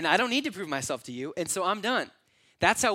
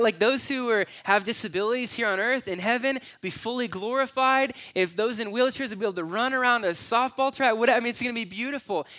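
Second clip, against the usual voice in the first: high and loud with rising joy; loud, high excitement about healing; excited; 7 semitones higher, 6 dB louder than usual. Real, not acted. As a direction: paint heaven with delight. Excited vision of heaven.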